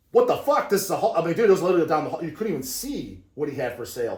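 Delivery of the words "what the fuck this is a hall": high, louder mock astonishment; higher mock shock; retold disbelief. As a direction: gape at the length of the line. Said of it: "I'm like".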